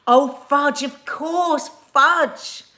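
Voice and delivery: high, loud pretend cursing; mock exclamation. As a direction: punch out the mild swear word. Acting out a sweet swear word.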